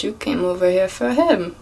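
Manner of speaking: lightly imitated Jamaican accent; attempted Jamaican accent. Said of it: "try my best to do this accent".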